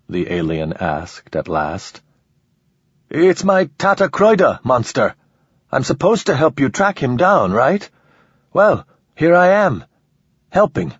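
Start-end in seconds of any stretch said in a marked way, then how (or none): 3.1-10.9 high, sharp sarcastic retort; defiant sarcasm. Acted. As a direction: taunt the monster.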